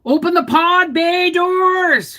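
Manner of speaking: movie robot line. Pretend. Quoting the famous film line, slow hammed-up command. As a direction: intone it like a sci-fi order to the ship computer.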